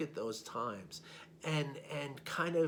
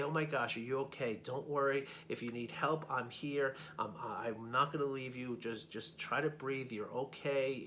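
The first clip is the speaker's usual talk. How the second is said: gentle voice. Pretend. Kind passerby comforting a stranger who fell, gentle. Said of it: "talk in a, a gentle voice".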